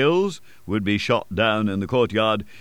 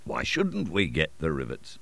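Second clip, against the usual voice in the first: reasonable tone; 4 semitones lower, 5 dB quieter than usual. A narrator's reading. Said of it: "in a reasonable tone".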